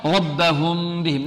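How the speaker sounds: slow "ربهم" with the final M hummed into "بهم"; concealed meem. Shown as a demonstration. Teacher showing concealment before baa, hummed M in "ربهم". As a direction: hide the M of "ربهم" in a long hum. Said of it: "نخفيها".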